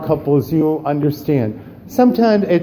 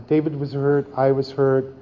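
sad; 3 semitones lower, 5 dB quieter than usual. Real, not acted. Emotional recollection.

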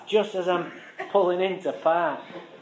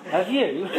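cheeky retort laughing; 5 semitones higher, much slower than usual. Retold or imitated.

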